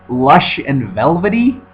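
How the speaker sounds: slow, "Lush and velvety" rising in disbelief; incredulous repeat. Retold or imitated. Scoffing at a critic's phrase, slow disbelieving rise. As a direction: throw the phrase back, baffled and mocking. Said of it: "They're not really saying anything".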